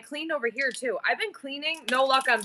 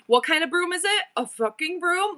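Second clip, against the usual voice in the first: mimicking her son; 4 semitones higher than usual. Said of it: "he just kept repeating me".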